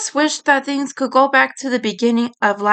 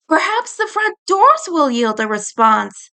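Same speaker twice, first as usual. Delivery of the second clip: pointing out; 5 semitones higher than usual. Acted. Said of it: "Ed pointed out".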